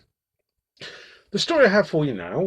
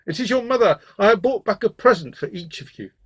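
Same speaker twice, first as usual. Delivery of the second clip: raised, loud gruff wolf voice; 7 semitones higher, 5 dB louder than usual. A narrator's reading. Wolf tells the little goats he is their mother, gruffly. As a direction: coax them as a gruff-voiced impostor. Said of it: "heard that the voice was gruff".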